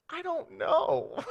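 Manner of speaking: high, slow mock wail; imitated crying. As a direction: drag it out like a tearful child. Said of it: "She's just crying".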